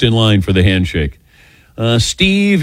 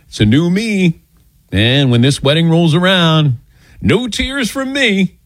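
raised pitch, stretching the last words; self-assured vow; 6 semitones higher than usual. Retold or imitated. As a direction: proudly declare yourself past all tears. Mock vow not to cry.

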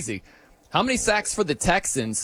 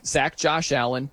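normal talking voice

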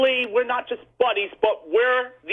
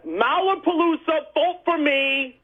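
amateur announcer promoting the show; voiceover promo. Pretend. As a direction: read it like a radio promo plug. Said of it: "can you be my voiceover guy".

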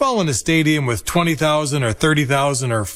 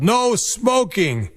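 high, drawn-out announcer's mock yell; imitated stadium warning call; Bob Casey; 6 semitones higher, much slower than usual. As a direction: stretch it out, pitched up like a PA man. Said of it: "while Mister Casey yelled".

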